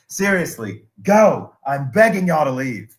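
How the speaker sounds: retold exasperated begging; imitated insistent plea. Voices leader pleading with laughing followers.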